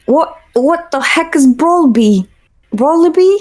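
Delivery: incredulous high squeak. Real, not acted. Baffled at a chat name.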